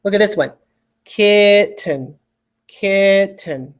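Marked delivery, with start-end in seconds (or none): 1.0-2.1 "Kitten" with the mouth opened wide on purpose; exaggerated mouth. Shown as a demonstration. Teacher shows the lazy syllables, mouth opened wide. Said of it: "I'm purposely trying to open my mouth a little". 2.7-3.7 "Kitten" with the mouth opened wide on purpose; exaggerated mouth. Shown as a demonstration. Teacher shows the lazy syllables, mouth opened wide. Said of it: "I'm purposely trying to open my mouth a little".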